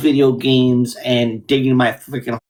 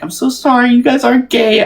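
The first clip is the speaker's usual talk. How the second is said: mock apology; 10 semitones higher, 6 dB louder than usual.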